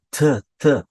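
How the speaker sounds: isolated "t" from behind the upper teeth; tongue-tip T. Shown as a demonstration. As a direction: model a clean "t", no tch. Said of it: "ponta da língua atrás dos dentes".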